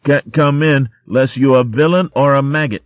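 high, bright calling out; cheerful call. Acted. Arvin calling cheerfully to the visitor at the door. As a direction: call through the door playfully. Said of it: "Arvin called cheerfully".

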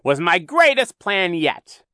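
loud, high, drawn-out villain growl; growled boast. A narrator's reading. Villain boasting of his greatest plan, growling loudly. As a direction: gloat loudly, stretching the words. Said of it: "Count Olaf growled".

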